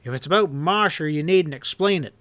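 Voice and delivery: angry tirade. Acted. Boss berating his henchman, angry and rising. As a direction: tear into him, building. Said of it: "Hanlon roared".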